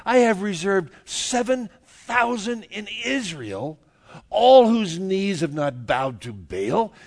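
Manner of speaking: loud, high, brusque retort; mock exasperated God. God scolding whining Elijah, loud and brusque. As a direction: tell him off like a fed-up boss. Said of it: "He said".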